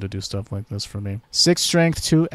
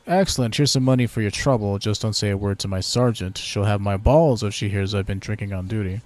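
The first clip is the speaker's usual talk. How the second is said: mock British guard, hailing a stranger; British accent; 3 dB louder than usual. Sentry hailing a passing stranger, in a light British accent. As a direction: play a bored British sentry. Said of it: "very British".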